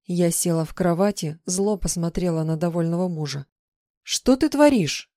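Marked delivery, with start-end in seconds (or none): 4.0-5.1 higher, louder, slow indignant question; angry demand. Acted. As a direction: confront him, furious and stunned. Heroine confronts husband.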